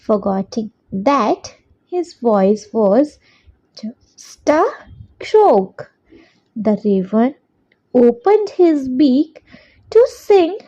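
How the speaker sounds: very slow, word by word for copying down; slow dictation. Shown as a demonstration. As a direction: dictate it so children can write along. Teacher dictates answer twice.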